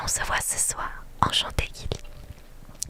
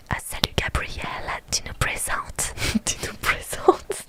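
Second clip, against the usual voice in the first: put-on slow whispered American-accented French; hammed-up American accent, breaking into laughter. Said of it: "je croyais que c'était moi qui disais ça". (accent américain exagéré, en riant)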